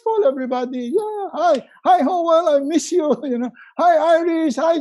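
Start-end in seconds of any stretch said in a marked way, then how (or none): 1.0-3.1 high, gushing greeting to a long-lost friend; hammed-up tearful phone greeting; gushing hello. Mock Zoom call to friends. 3.8-4.8 high, gushing greeting to a long-lost friend; hammed-up tearful phone greeting; gushing hello. Mock Zoom call to friends.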